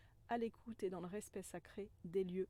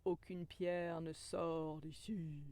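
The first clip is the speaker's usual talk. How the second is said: slow, lower, solemn guardian voice; cave guardian; 3 semitones lower, slower than usual. Pretend. Cave guardian refusing any stone, slow and solemn. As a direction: lay down the law slowly from deep in the cave. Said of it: "qui me dit".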